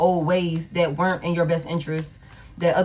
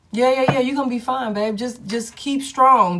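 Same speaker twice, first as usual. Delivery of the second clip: hype encouragement; 5 semitones higher than usual. Real, not acted. Hyping up the viewer.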